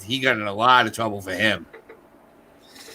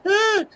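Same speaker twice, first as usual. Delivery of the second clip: imitated audience noise. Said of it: "they're all sitting there going".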